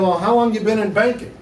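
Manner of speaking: feigned interest with the real opinion leaking through; inner thoughts showing. Retold or imitated. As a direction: ask it as if barely hiding what you think. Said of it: "I didn't say it like that, but that's what I was thinking".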